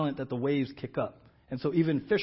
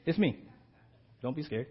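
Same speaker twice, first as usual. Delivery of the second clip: Jesus, reassuring and chill. Acted. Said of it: "And Jesus is like".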